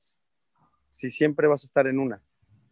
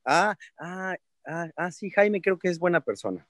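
dimwit reaction; 4 semitones higher than usual. Pretend. The fool warming to Jaime, dim and pleased. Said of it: "the fool's reaction".

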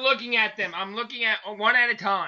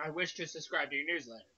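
quieter, faster mock meme read; soft demo read; 3 semitones lower, 10 dB quieter than usual. Shown as a demonstration. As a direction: murmur the meme line softly. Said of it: "Like that".

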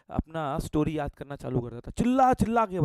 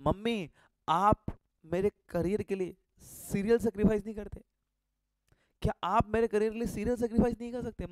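emotional plea; 3 semitones higher than usual. Retold or imitated. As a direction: lay the guilt on thick to mom. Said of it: "mummy को थोड़ा senti मारने का". (मम्मी से भावुक होकर नाटकीय गुहार)

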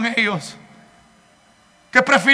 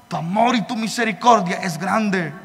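hushed prayer; 4 semitones lower, 6 dB quieter than usual. Retold or imitated. Retold bedtime prayer to God.

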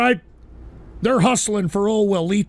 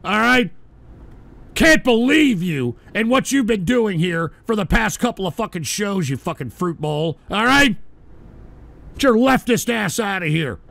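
hammed-up telling-off of the caller; mock fury. Host berates caller Prince.

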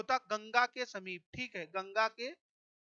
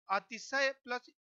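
slow split. Shown as a demonstration. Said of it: "टूटकर बनता".

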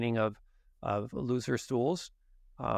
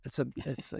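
mock fumbling apology; 3 semitones higher than usual. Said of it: "You're like".

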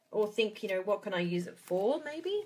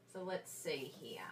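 whisper; 6 semitones lower, 12 dB quieter than usual. Real, not acted. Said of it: "muttering while cutting".

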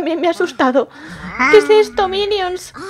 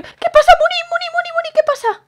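worried call; 11 semitones higher, faster than usual. Pretend. Worried calling to her sister.

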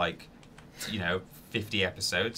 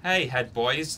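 louder, drawn-out hail; mock calling out; 4 semitones higher, 5 dB louder, much slower than usual. Player suggesting knocking on the door, mock hailing call. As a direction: call out slowly as if to a gang. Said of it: "knock on the door and go".

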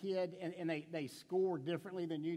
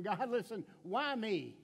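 pleading Martha; 3 semitones higher, slower than usual. Retold or imitated. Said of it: "this is what Martha's doing".

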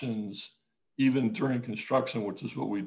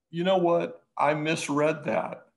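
higher, mock sudden realization; imitating caller's reversal; 5 semitones higher, 4 dB louder than usual. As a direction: play the prankster correcting himself. Retelling caller's prank reversal.

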